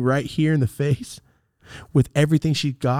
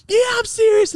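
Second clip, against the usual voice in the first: loud, very high-pitched yell; retold shout; 5 dB louder than usual. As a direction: shout it back heatedly. Retold yelling match after punch.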